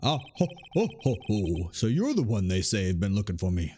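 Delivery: chortle, then speak self-importantly; pompous older lawyer. Acted. Boss greeting the one who was looking for him, pompous. Voices Grossberg's entrance.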